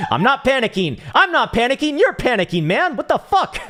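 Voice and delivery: shrieking high with laughter, denying panic; squeaky hammed-up panic, loud and laughing; mock panic. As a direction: play the panicking guy, laughing at yourself. Mock panic after app outage.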